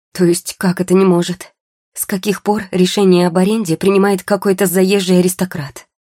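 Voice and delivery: громко и выше, возмущённые вопросы; возмутиться в ответ, повысив голос; возмущение. A narrator's reading. Героиня возмущена отказом в аренде. (возмущённо, громко)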